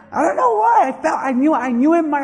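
high, loud put-on protest; mock bewilderment. Preacher acting a parent paying child support, high mock bewilderment. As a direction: pitch it way up in mock disbelief. Acts a divorced parent's excuse.

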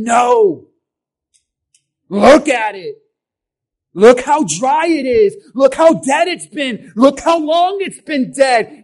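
loud, glum pessimist voice; mock pessimist. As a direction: moan that it's all dead and hopeless. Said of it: "He's not saying".

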